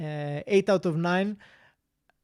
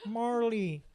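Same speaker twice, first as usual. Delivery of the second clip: lightly voiced Owen Wilson, pitched up; Owen Wilson impression; 5 semitones higher, slower than usual. Quizmaster imitating Owen Wilson telling Marley off, lightly done. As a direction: scold the dog in a mild Owen Wilson voice. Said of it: "that's what he sounds like".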